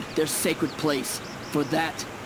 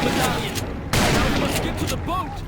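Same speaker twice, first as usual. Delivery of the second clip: high, loud hurried calls; urgent shout; 10 semitones higher, 3 dB louder than usual. Acted. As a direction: shout the escape plan. Fleeing, shouting urgent orders.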